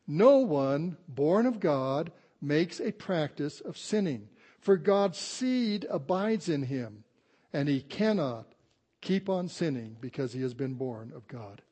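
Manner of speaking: slow, emphatic pulpit reading; scripture reading. Acted. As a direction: read the verse out slowly, word by weighty word. Reads scripture to congregation.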